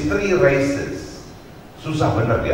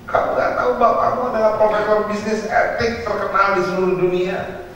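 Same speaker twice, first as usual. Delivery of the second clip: lightly acted, higher-pitched exasperated dad; scold, then advise as the father; 9 semitones higher than usual. Ethics professor scolding his child over markers, mildly exasperated.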